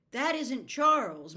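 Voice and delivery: loud, slow, anguished cry; cried out. Acted. Meg to her father, a loud slow cry. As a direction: she can't believe it, so she cries it out. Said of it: "Meg cried".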